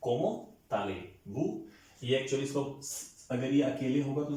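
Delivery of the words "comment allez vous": drawn-out, words joined; slow liaison practice; slow linked demo. Shown as a demonstration. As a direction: stretch "Comment allez-vous" slowly as one phrase. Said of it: "अब इसकी formal form".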